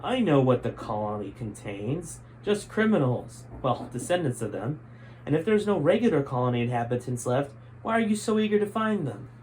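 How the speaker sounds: a touch of smugness, Gray taunting the general; smug. Acted. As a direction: needle him with a grin. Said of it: "Gray smugly grinned".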